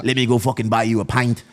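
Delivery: put-on botched Boston accent drifting toward Irish; retold offer in a shaky Boston accent; attempted Boston accent. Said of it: "in his fucking accent".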